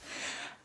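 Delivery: soft, voiceless exhale; overwhelmed sigh. Real, not acted. Vlogger after seeing the positive test, sighing softly. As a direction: let a quiet breath out.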